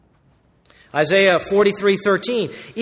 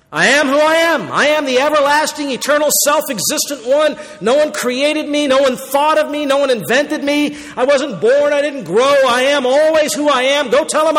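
a hint of a divine voice, a bit higher and raised; proclaiming as God; 5 semitones higher than usual. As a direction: declare each line like God proclaiming his eternal name. Voicing God's self-declaration to Moses.

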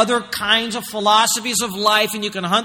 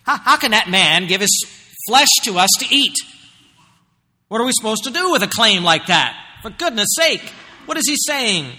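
raised, louder disbelieving cry; incredulous; 4 semitones higher, 4 dB louder than usual. Retold or imitated. Crowd of Jews arguing over Jesus's claim, incredulous and raised. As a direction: act out the crowd's stunned disbelief. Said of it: "It's an incredulous statement".

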